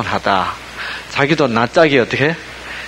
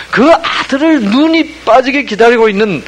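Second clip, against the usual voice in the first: much higher, louder, pressing with emotion; earnest longing; 7 semitones higher, 5 dB louder than usual. Acted. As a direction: stretch out the father's longing. Preacher stressing longing father. (아버지의 간절함을 높고 크게 강조)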